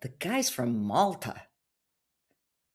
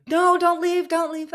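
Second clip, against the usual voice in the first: much higher, whiny begging; pleading scammer; 7 dB louder than usual. Retold or imitated. Scammer begging her not to go, high whiny plea. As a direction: plead like a desperate suitor. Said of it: "And he's like".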